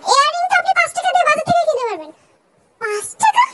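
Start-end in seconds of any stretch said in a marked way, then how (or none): 0.1-2.1 sharp, higher mocking shout; a raised, dismissive put-down; scornful retort. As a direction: scoff at the five-taka earring. Mocking a cheap earring demand.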